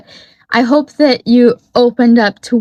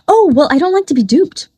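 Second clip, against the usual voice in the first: imitating Woz; 4 semitones higher than usual. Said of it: "And he goes".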